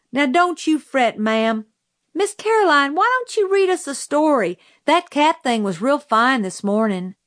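put-on high-pitched country child, consoling; coaxing child. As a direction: coax the upset teacher in a high child's voice. Children comforting the crying teacher.

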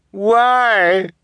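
high, loud, drawn-out wail; crying out. A narrator's reading. Abandoned orphan to departing guardian, crying out. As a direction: cry out in desperate protest. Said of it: "Violet cried".

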